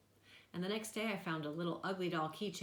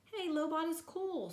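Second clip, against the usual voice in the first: much higher, slower, louder cheer; upbeat; 12 semitones higher, 4 dB louder than usual. A narrator's reading. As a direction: pump him up. Doctor cheering up the boy.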